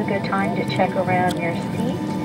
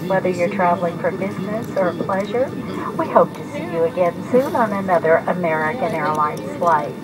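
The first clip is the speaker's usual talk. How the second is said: airport announcement. Real, not acted. Airline cabin announcement continues.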